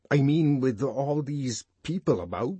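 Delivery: awkward, strained and self-conscious; choked with confusion. A narrator's reading. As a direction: falter in embarrassed confusion. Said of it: "he was choked with confusion".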